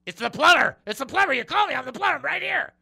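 high, loud, fed-up shout; exasperated yell. Acted. Plumber answers the parrot yet again, exasperated high shout.

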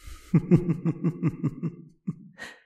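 drawn-out breathy ghostly cackle; eerie spirit cackling under its breath; long whispered cackle. Acted. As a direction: let a gleeful whispered laugh run on. Ghost delighted by visitor.

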